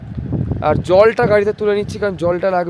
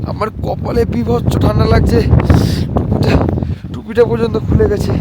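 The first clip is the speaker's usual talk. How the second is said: shouting over wind; 2 semitones higher, 4 dB louder than usual. Real, not acted. Strong wind, cold on mountain.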